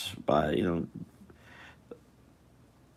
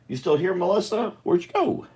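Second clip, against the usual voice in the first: calling out; 12 semitones higher than usual. Real, not acted. Calling for missing Melissa.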